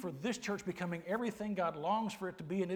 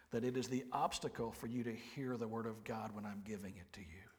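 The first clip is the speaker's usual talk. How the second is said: soft, slow, near whisper; hushed sermon; 7 semitones lower, 6 dB quieter than usual. Acted. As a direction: lean in and hush the room. Preacher drops to intimate hush.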